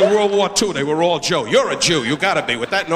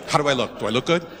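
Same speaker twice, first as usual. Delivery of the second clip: mock vain Billy; 7 semitones lower, 4 dB quieter, faster than usual. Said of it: "He keeps walking around saying".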